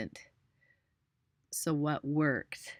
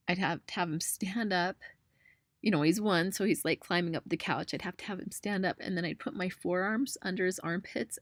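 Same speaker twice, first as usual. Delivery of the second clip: getting emotional; 3 semitones higher than usual. Real, not acted. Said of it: "I'm gonna get emotional here".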